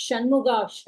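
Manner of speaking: ஷ retroflex in ஷண்முகா, tongue curled back; Shanmuga sha. Shown as a demonstration. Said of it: "we must keep it in mind as".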